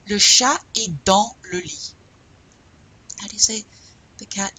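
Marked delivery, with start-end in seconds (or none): 0.1-1.9 "Le chat est dans le lit" in one connected phrase; loud, clear "Le chat est dans le lit" without breaks; connected practice model. Shown as a demonstration. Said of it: "Répétez".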